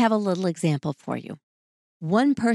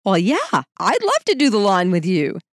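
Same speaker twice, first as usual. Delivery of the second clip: playful, louder, teasing agreement; sly with a wink; 5 dB louder than usual. Pretend. Spouse answering the yard request, slyly playful. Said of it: "looking sort of sly and with a wink".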